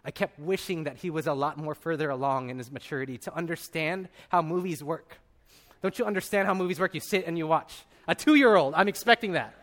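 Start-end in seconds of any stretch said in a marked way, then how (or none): 5.8-9.5 mock-exasperated parent, louder towards the end; frustrated. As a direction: act out impatience with a toddler. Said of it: "frustrated at my son".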